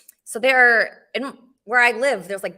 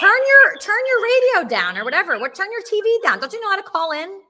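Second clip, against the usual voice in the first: irritated shout; 8 semitones higher, 5 dB louder than usual. Real, not acted. Host telling a noisy caller to turn the TV down, loud and annoyed. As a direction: turn your radio down, louder and higher. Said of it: "host snaps at noisy caller".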